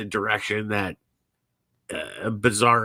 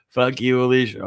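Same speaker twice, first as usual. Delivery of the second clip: fond curse; 2 semitones higher, 5 dB louder than usual. Real, not acted. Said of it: "I don't wanna fucking cry".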